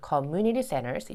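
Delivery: slow "community centers", first noun stronger; front-weighted compound "community centers"; stress on COMMUNITY. Shown as a demonstration. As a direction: put the force on "community", lighter "centers". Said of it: "앞에다가 좀 더 힘".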